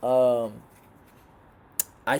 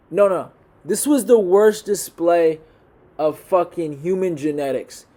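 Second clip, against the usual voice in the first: angry rant; 3 semitones higher than usual. Real, not acted. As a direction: spit out the disgust at the fighters. Ranting about a bad fight.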